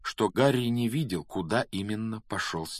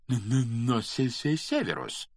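higher-pitched, stuttering protest; nervous stammer; 4 semitones higher than usual. A narrator's reading. Quirrell trying to object to Snape, stammering nervously. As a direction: stumble timidly on each opening sound. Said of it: "к заикающемуся профессору".

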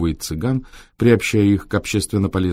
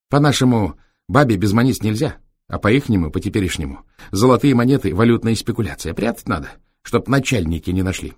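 cheeky raised voice of a Roma driver; gypsy driver voice; 3 semitones higher than usual. Acted. Витёк объясняет, цыганская речь. (бойкий голос цыгана-шофёра)

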